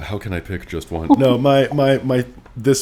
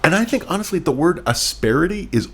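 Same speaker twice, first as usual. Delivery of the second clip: higher and louder, laughing through it; 9 semitones higher, 5 dB louder than usual. Real, not acted. Host landing a joke about a word, higher and laughing. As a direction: deliver the punchline while laughing.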